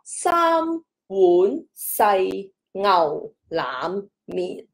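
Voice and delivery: walk through 三 碗 细牛腩面 one syllable at a time; teacher sounding out the six-tone phrase; slow tone demo. Shown as a demonstration. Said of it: "马上一句话".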